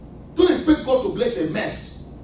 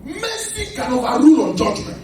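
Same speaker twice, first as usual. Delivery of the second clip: forceful preaching; 5 semitones higher, 4 dB louder than usual. Real, not acted. Preacher proclaims to congregation.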